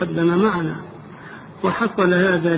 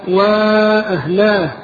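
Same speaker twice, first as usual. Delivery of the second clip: retold cry out; 3 semitones higher, 7 dB louder than usual. Fighter in the raid calls out for his family, retold loud cry. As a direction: cry out loudly, stretching the words as a storyteller would. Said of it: "صاح".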